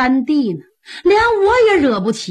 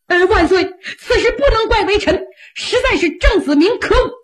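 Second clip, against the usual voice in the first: higher, half-crying complaint to the emperor; a touch of a sniveling courtier; mild whiny plea; 7 semitones higher than usual. Acted. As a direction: plead your innocence with a fake sob.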